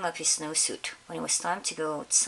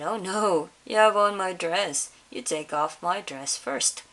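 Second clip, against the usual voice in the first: louder protest, then slow; indignant retort; 5 dB louder than usual. Acted. Teacher arguing with the principal over the dress, louder protest. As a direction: refuse and throw it back.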